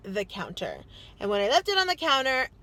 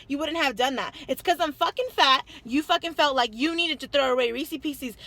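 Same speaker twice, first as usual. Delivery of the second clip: raised pitch, indignant retold rant; retold going off; 2 semitones higher than usual. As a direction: re-enact laying into your husband, punching key phrases. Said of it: "I went off on him".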